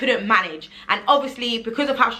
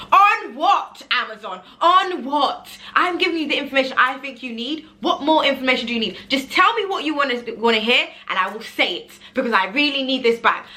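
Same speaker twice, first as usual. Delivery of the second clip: exasperated outburst; 3 semitones higher than usual. Retold or imitated. Exasperated rant at Amazon.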